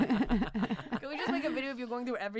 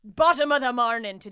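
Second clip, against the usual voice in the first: louder, badly faked Irish; mock Irish accent; 6 dB louder than usual. Comic botching a podcast sign-off, mock Irish accent. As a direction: attempt an Irish greeting.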